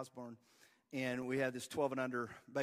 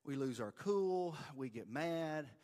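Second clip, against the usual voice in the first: put-on softer, slow comforting words to a boy; reassuring coach; 4 dB quieter than usual. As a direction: ease his guilt gently and slowly. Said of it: "'cause I'm like".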